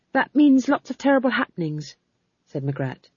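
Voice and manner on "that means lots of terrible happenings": high, eager character voice; eager explaining witch. Acted. Young witch explaining the script to her elders, eager and high. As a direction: explain it in a higher-pitched witch voice.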